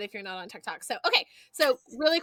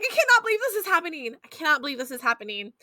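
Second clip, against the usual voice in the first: disbelief; 4 semitones higher, 5 dB louder, faster than usual. Retold or imitated. Disbelief at sharting her pants.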